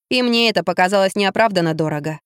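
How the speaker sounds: usual speaking voice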